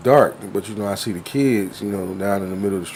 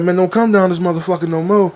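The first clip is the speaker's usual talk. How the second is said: mock kid threat; 6 semitones higher than usual. Kid voiced in story.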